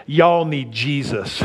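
slow, drawn-out y'all; T-shirt slogan. Retold or imitated. Pastor reading his son-in-law's T-shirt, slow and deliberate. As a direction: read Y'all need Jesus slowly, leaning on Y'all. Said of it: "It says".

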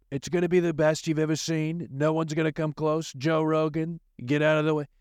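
lightly hammed-up braggart bragging; mock hype boast. Host jokingly hyping his new podcast, mock boastful. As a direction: boast like a cocky promoter, half joking. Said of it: "I apologize".

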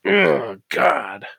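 mock shudder of revulsion; shuddering disgust. Reacting to seeing that name written, shuddering. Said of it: "it just makes me shudder".

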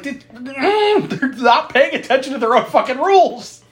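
high mock outrage; incredulous complaint; exasperated. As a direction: scoff at the broken rules. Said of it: "I was like".

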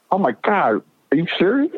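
surprised delight. Retold or imitated. Joe Williams hears who the dad is.

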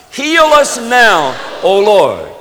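loud, high call leading a congregation in prayer; praying aloud. Real, not acted. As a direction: cry the prayer out to God. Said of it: "pray that prayer".

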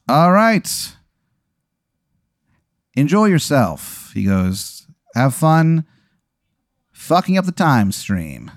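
high, slow, laughing bus driver; Jay Crow voice. Acted. The pirate bus driver introducing himself, high and slow with laughs.

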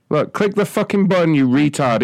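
high, strained yell. Pretend. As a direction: bark the order angrily. Caller yells.

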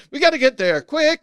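loud, high, hammed-up urgency; badly acted high-pitched shout; Bad Actor. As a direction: overplay the emergency like a terrible actor. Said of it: "could not give a good line reading".

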